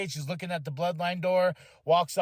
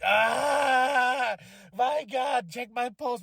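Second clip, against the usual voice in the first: overexcited fan; 7 semitones higher, much slower than usual. Retold or imitated. Fan telling his wife he's overwhelmed, breathless excited cry. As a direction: gasp it out like your heart's racing. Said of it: "You're sweating so bad".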